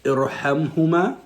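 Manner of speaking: "Irhamhuma" drawn out, a firm Arabic h, rising at the end; slow model recitation. Shown as a demonstration. Mother teaching her son the dua, slow clear recitation. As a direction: spell out "Irhamhuma" slowly for the child to copy. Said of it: "you're gonna repeat the dua after me".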